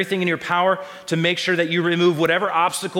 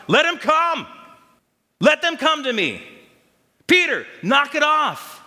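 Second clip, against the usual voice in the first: much higher and louder, an indignant rebuke; indignant shout; 11 semitones higher, 4 dB louder than usual. Acted. Jesus rebuking the disciples for blocking children, indignant shout. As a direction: bellow at the disciples to let the kids through. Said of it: "I don't think he said it softly".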